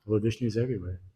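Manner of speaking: soft, unbothered retold answer; mildly voiced, quiet assurance; calm reply. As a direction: answer softly, imitating a calm child. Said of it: "Prahlad very calmly said".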